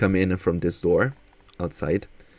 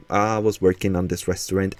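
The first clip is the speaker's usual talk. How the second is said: lightly put-on southern accent; fake southern accent. Real, not acted. Streamer telling viewers about the build, fake southern accent. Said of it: "putting on this fake, um, southern accent".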